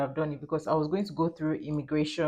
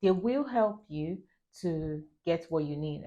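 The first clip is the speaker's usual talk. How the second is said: light mock French accent; imitated French-accented English. Airport staffer directing traveller to Air France, imitated French accent. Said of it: "that's how they kind of sound when they're speaking English".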